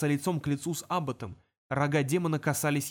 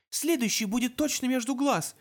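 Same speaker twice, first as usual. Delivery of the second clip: threat; 9 semitones higher than usual. Acted. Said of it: "пообещала она".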